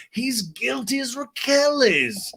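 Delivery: high, very drawn-out imitation; put-on voice. Recapper acting out the Schwartz complaint, high slow put-on voice. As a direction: stretch it out in an exaggerated high pitch.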